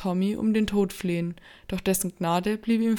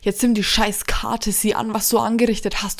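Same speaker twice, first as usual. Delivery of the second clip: loud, raised angry yell; shouting; 2 semitones higher, 7 dB louder than usual. Acted. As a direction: scream at him in panic. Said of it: "schrie André an".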